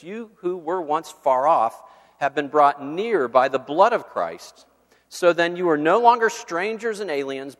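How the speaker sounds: formal reading of Ephesians, swelling on key phrases; preacher reading Bible verses to the church; scripture reading. Acted. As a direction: read the verses with building emphasis. Reads Ephesians passages aloud.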